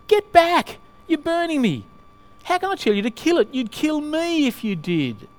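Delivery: high, loud storybook panic; frightened ghost fending off the angel; panicked ghost. A narrator's reading.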